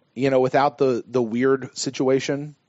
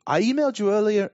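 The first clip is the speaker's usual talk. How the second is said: higher-pitched, shaky attempt at an English accent; 9 semitones higher than usual. Shown as a demonstration. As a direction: try an English accent, channeling a hobbit actor. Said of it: "when I do an English accent".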